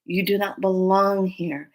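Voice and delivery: slow, measured banishing command. Retold or imitated. Telling the creature again, slow stern command. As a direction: lay down the law slowly and firmly. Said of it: "told it again".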